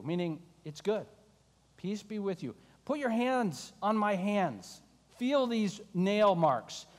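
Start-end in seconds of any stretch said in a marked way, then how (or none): 1.8-6.9 gentle, tender Jesus. Acted. Jesus gently invites doubting Thomas to touch the wounds. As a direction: coax him closer, slowly.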